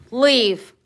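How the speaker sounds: loud firm order, falling; stern command repeated. Real, not acted. Owner repeating the order to her dog, loud. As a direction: order him out firmly.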